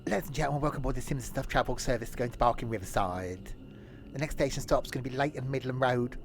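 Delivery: lightly voiced guard on the tannoy; train guard announcement. Tony the guard welcomes passengers aboard, mock announcement.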